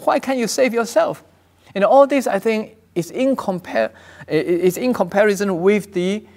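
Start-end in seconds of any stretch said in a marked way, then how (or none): 0.0-1.2 higher-pitched taunt, retold by a preacher; mildly mocking challenge; ridiculing. Robber taunting Jesus on the cross, mild ridicule. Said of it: "ridicule Jesus".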